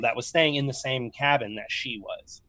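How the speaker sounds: usual speaking voice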